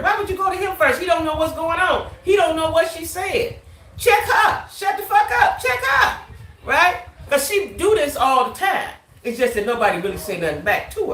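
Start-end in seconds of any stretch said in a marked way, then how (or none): 4.0-7.0 shouted command. Acted. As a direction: snap at her to shut up. Voicing what to tell her.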